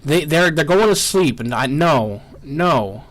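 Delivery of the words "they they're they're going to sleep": angry player losing patience at his sleeping workers; exasperated anger. Real, not acted. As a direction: vent real frustration at the screen. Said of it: "This is pissing me off".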